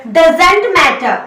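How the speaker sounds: very drawn-out teacher model; slow model phrase. Shown as a demonstration. Teacher modelling a phrase very slowly for students. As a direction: stretch it slowly for learners. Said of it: "कैसे बोलेंगे बताइए".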